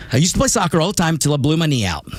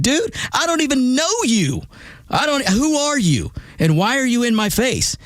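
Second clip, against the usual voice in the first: high, disbelieving dude voice; baffled high protest; 10 semitones higher than usual. Retold or imitated. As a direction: push back in bewildered disbelief. Confused reply, high voice.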